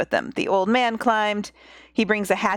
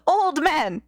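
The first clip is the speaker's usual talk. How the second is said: lightly voiced goat calling out; a hint of a goat in the voice; 4 semitones higher than usual. Wife calling her husband, by mistake in a light goat voice. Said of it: "Nope, that's a goat voice".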